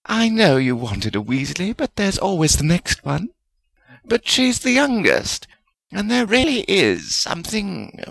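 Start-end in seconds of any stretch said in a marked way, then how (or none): 0.0-3.3 gently consoling character voice; mildly soothing, lightly voiced woman. A narrator's reading. Woman consoling her disappointed colleague, soothing. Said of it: "Helga said soothingly".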